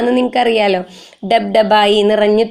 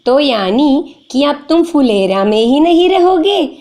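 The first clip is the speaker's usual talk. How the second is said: higher, slow pleading question; sad girl asking; 5 semitones higher than usual. Acted. A hint of sad girl Bela asking Sahil, higher and slow. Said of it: "അപ്പൊ ഇവള് പറയാ".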